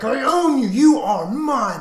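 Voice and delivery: high, loud claim of ownership; yelling. Retold or imitated. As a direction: yell it slow and possessive at your prey. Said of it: "I was just yelling".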